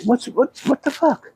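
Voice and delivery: mock angry. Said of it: "he got mad at me".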